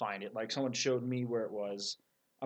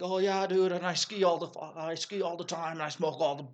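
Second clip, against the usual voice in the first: stoner dude voice; 4 semitones higher, 3 dB louder than usual. Pretend. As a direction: play the dumb stoner cliché. Mocking a stereotypical stoner reply.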